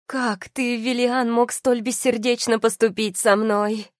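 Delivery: high-pitched, wounded reproach; angry despair. A narrator's reading. Betrayed wife confronts Виллиан, angry and despairing. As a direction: confront him with anguished outrage. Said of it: "искажено гневом и отчаянием".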